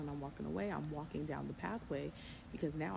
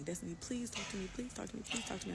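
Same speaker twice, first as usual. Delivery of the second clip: higher, lightly voiced pleading; imitated begging; 4 semitones higher than usual. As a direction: mimic an ex begging for attention. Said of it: "he's begging me".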